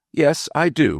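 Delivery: high, defiant admission. A narrator's reading. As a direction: blurt it out in defiance. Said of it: "returned Warwick defiantly".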